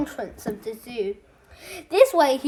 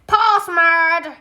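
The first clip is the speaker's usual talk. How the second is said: hissed password; 3 semitones higher, 5 dB louder than usual. Acted. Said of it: "the man would hiss".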